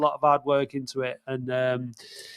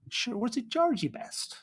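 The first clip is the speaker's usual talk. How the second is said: high, slow mock Northern Irish; Northern Irish accent; 8 semitones higher, 9 dB quieter than usual. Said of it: "I got my accents wrong there".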